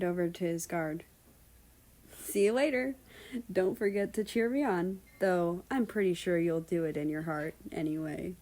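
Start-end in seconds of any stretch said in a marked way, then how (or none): 2.2-8.3 a hint of a smiling farewell; warm smile. America teases his guard, warm and smiling. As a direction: say it warmly, teasing. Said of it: "with a warm smile".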